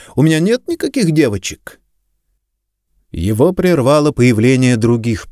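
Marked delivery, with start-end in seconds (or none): 0.2-1.8 high-pitched protesting denial; exclaimed denial. A narrator's reading. Suspect denying he holds any girls, high exclamation. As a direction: insist on it in a raised pitch. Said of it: "воскликнул Стиллуотер".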